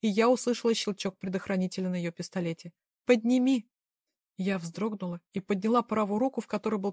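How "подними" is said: sharp repeated command. Acted. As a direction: snap the order out, harder and louder. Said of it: "скомандовала Доминика".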